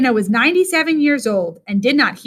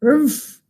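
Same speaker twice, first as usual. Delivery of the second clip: growl; 3 semitones higher than usual. Acted. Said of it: "he growled".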